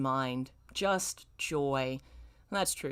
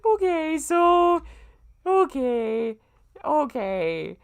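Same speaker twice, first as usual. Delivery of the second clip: shaken okay; 10 semitones higher, 7 dB louder, much slower than usual. Real, not acted. Composing herself after the shock.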